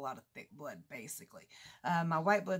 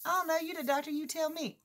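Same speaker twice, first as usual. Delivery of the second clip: exasperated comeback; 9 semitones higher than usual. Retold or imitated. Patient answering the doctor back, exasperated.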